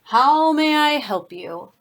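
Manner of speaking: lightly voiced magical helper; helpful shapeshifter. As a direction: grandly offer your services, slowly. Shapeshifter greets a customer in story.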